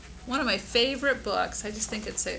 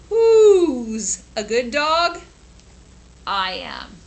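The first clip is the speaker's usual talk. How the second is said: put-on doggy baby talk; 6 dB louder, slower than usual. Dog praises himself.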